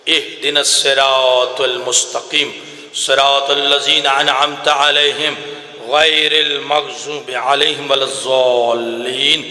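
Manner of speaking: low, measured chanted recitation; slow reverent Arabic recitation; Quran recitation. Acted. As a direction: recite calmly and devoutly. Quranic recitation after sermon.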